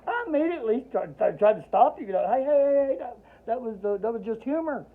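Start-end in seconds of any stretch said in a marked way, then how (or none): 2.3-4.9 higher, louder re-enacted protest; acted hasty backtracking; urgent interruption. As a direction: jump in to call him off. Urgently trying to stop the doctor.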